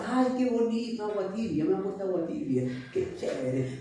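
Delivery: soft, contented little sigh of pleasure; voicing the happy frog. Preacher voicing the frog in warming water, content. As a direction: sink into the warm bath.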